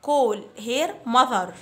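slow model phrase. Shown as a demonstration. Teacher to fifth graders, whole phrase said very slowly. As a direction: call her mother as one very slow, even phrase. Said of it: "Repeat after me".

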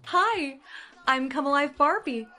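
bright, chirpy doll greeting. Acted. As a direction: greet her like a toy come alive.

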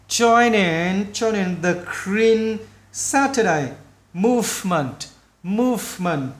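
slow, careful model reading; slow, word by word. Shown as a demonstration. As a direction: give each word room for learners. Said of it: "mình nói chậm từng chữ". (nói chậm từng chữ)

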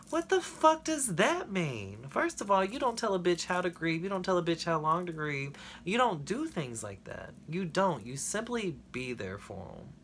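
indignant, heated venting; angry rant. Real, not acted. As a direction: let the anger about grieving spill out. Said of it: "That was a bit of a rant".

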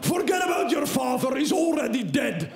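hammed-up callous guide; blunt guide. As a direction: brush him off coldly. Guide dismissing the son.

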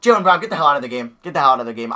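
loud, fast angry order; angry at player. Real, not acted. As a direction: bark him off the court. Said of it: "so that made me mad".

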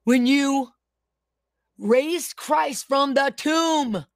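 slow, deliberate prayer with falling phrase ends; prayer declaration. Real, not acted. Preacher praying over online viewers, slow fervent prayer. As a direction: pray it out phrase by phrase, drawn-out and commanding.

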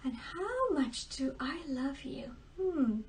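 hushed, thinking-aloud whisper; whispered musing. Acted. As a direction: mutter it to yourself. Daughter thinks to herself.

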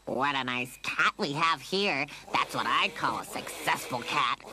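gloating cat catcher villain; put-on villain voice, taunting the captive; deep mocking voice. A narrator's reading. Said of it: "Lucy heard him deep mocking voice".

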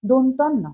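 দন্তান্ন with tongue touching the teeth; dental pronunciation. Shown as a demonstration. Teacher explains the name দন্তান্ন, carefully dental. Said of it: "দাঁতে লাগছে".

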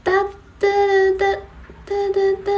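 short staccato "da" sounds; spoken drumroll sting. Pretend. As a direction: tap out a punchline sting with the voice. Imitated rhythmic noise after joke. (用嘴发出“哒哒哒”的节奏音)

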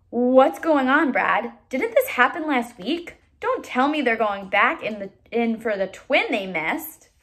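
soldier bewildered by the news; puzzled soldier. Acted. Other soldier voiced, puzzled.

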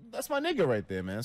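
high, loud hype after a shot; taking a shot with Green, cheering high and loud; hyped. Retold or imitated. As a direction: cheer the friend on loudly. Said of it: "I was like".

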